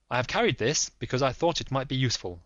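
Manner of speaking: lightly voiced firm detective; Holmes. Holmes pressing the lady, lightly voiced firm.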